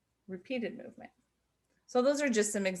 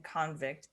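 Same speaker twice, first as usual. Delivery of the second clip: convict stressed on the first syllable; CONvict, the noun form; 2 semitones lower, 4 dB quieter than usual. Shown as a demonstration. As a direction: put the weight on CON in convict. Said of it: "being the noun".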